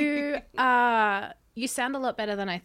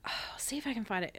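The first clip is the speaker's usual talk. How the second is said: whispering; 6 dB quieter, much faster than usual. Real, not acted. Searching phone, muttering.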